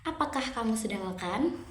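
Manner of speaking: quick question, "Apakah kamu sudah makan" lifting at the end; rising intonation. Shown as a demonstration. Teacher showing a yes-no question, rising intonation up on "makan". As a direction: let the pitch climb on "makan". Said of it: "intonasi naik atau raising intonation".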